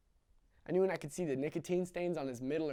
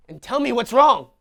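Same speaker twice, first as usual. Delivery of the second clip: louder, higher, slow demand; impatient father; 8 semitones higher, 16 dB louder than usual. Acted. Father demanding the crying boy explain, impatient. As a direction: press him hard for an answer.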